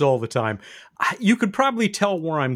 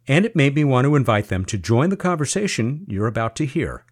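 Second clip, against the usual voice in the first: measured, clearly projected host read; scripted radio introduction; 4 dB louder than usual. Acted. Reads a scripted show introduction.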